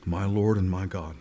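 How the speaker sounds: low, reverent, after a sigh; awed confession. Acted. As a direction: breathe it out in wonder. Thomas's confession acted after sigh.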